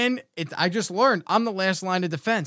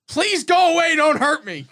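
mock pleading; 9 semitones higher, 6 dB louder than usual. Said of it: "That was my defense".

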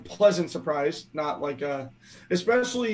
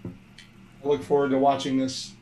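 robot voice. Real, not acted. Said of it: "you're still a robot".

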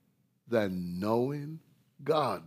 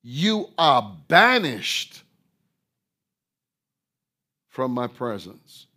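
very slow, loud "You are banished" with long pause; solemn rebuke; 8 dB louder, slower than usual. Acted. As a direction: drag out "banished" like a judge's sentence. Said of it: "And then he said now".

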